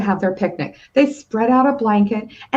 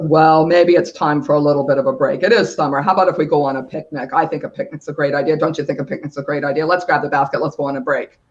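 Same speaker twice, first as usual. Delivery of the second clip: papa mouse; 8 semitones lower, faster than usual. Acted. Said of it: "And Papa Mouse says".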